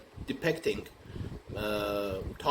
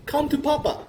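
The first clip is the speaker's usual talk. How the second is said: mock welcome; 4 dB louder than usual. Austrians' legendary welcome to Hitler.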